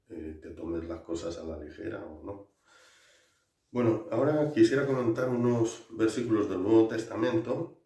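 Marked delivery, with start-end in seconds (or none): 3.7-7.8 loud announcement. Real, not acted. Announcing next topic loudly.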